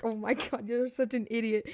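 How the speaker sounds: soft, low-key dismissal; unimpressed muttering. Retold or imitated. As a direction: say it quietly under your breath, retold. Acts out his unimpressed reaction.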